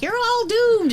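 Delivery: high ominous warning voice; mock doom-sayer cry; ominous doom prophet. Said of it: "they're like".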